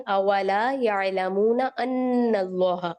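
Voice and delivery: slow recited "اولا یعلمون ان اللہ" with the نون of ان held in the nose; ghunnah on ان. Shown as a demonstration. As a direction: recite "ان" with a held nasal hum. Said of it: "ان کر کے ہم نے غنہ کرنا ہے".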